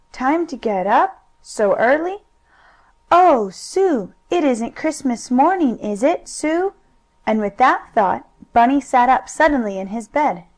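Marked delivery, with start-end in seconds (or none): 0.1-2.2 put-on surprised child. Bunny surprised at early hour. 3.1-6.7 put-on excited child. Bunny excited about Christmas.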